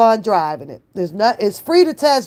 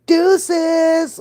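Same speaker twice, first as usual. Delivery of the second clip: shouted sign-off; 9 semitones higher than usual. Real, not acted. Signing off the vlog.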